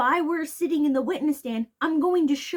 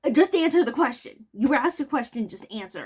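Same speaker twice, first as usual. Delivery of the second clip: exasperated outburst; 4 dB louder than usual. Real, not acted. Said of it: "frustrated at evasive witness".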